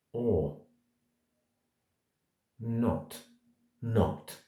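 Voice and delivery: each word alone with long pauses; To be or not said one word at a time, without emotion. Shown as a demonstration. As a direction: say every word on its own, slowly. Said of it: "do the whole speech like that".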